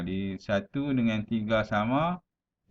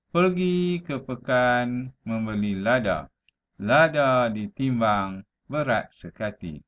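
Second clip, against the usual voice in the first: measured verse reading, line by line; deliberate classroom poem reading; pantun recitation. Shown as a demonstration. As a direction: recite the rhyme clearly with drawn-out phrase ends. Reads a pantun aloud.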